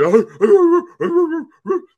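high, loud doggy howls; mimicked chorus of howling dogs; imitated dog howling. Storyteller mimicking dogs upstairs going crazy, wild howling. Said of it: "the dogs are going crazy".

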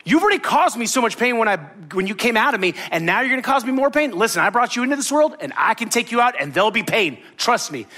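hammed-up angry mother's lecture; mock angry mom. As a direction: threaten the kid like a fed-up mom, half in jest. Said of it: "his mom getting angry at him".

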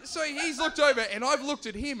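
high, laughing storytelling. Real, not acted. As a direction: tell it while cracking up.

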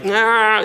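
pained groan. Retold or imitated. Dad with a kidney stone.

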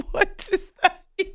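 stifled giggle; can't keep a straight face; trying not to laugh. Real, not acted. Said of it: "I'm trying to be serious".

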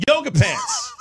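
very high, squealing holler; yelled nonsense catchphrase. Shown as a demonstration. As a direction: shriek it out for a laugh. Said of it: "You gotta yell something out there".

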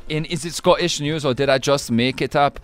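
Scottish-voiced story reading; Scottish accent. Host reading the second news story, Scottish accent. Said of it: "doing the accent of Scotland today".

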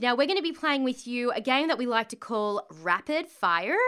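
slips into an American accent; host announcing the game in an American accent. Real, not acted. Announcing Rapid Fire in a casual American accent. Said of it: "I did that in American accent".

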